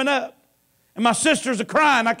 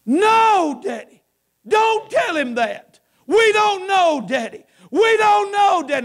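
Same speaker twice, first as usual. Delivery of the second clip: higher pleading protest, mild retelling; sister's pleading cry; 7 semitones higher, slower than usual. Retold or imitated. Sister in the background begging Daddy not to say it, pleading. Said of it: "I could hear her screaming".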